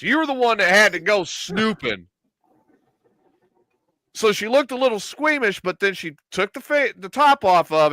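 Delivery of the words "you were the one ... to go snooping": mildly heated retold protest; retelling an indignant back-off; indignant refusal. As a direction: push the blame back, emphatically.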